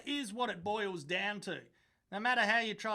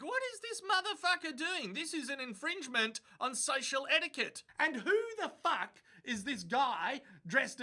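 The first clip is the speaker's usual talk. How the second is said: mock posh pug voice, pitched way up; voicing a dog; 6 semitones higher than usual. Reacting to the footage, voicing the pug's snooty thoughts. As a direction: give the pug a snooty inner voice.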